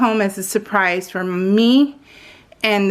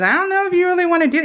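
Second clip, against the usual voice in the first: quoting husband; 8 semitones higher, much faster than usual. Retold or imitated. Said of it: "He goes".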